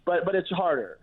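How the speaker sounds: ordinary talk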